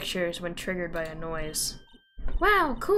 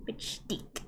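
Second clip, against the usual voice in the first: whisper; 12 dB quieter than usual. Acted. Whispered repeat.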